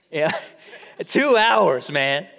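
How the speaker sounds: slow, with a laugh breaking into "two hours". Real, not acted. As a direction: laugh through it in disbelief. Laughing at a jail-time story.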